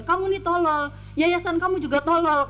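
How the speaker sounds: retold insult. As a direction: sneer it like the angry employer. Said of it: "kata dia gitu".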